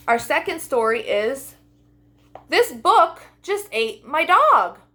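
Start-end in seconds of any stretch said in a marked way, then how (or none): 2.5-4.8 slow, louder title read; title read slowly. A narrator's reading. Storyteller reads title to listening children, slow and grand. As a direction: announce the title with drama.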